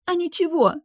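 put-on high young woman's voice, snapping; girl snapping back. A narrator's reading. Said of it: "огрызнулась девушка". (огрызается девушка, высоким голосом)

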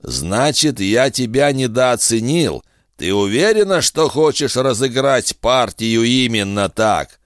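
a hint of a smug bargaining villain; sly bounty hunter. Kusaka voiced in narration.

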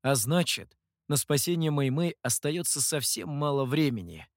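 ordinary delivery

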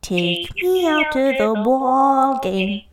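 put-on New York accent. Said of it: "That coffee one".

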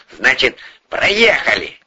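mildly calmed, conclusive; suddenly calm. A narrator's reading. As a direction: drop the anger and move on. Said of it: "неожиданно спокойно произнёс Порешайло".

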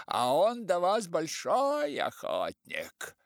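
high, loud, slow hoarse officer. A narrator's reading. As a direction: croak it out like a police chief. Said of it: "произнёс охрипшим голосом".

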